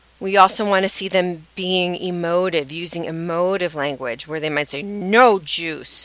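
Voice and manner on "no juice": imitated, put-on angry tone. Speaker gives an example of emotive language, imitating an angry tone. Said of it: "and you hear that angry tone".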